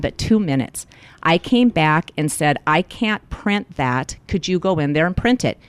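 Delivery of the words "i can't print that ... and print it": mildly calm, measured re-enactment; casual, unbothered retold request. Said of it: "That calmly. I said it just like that".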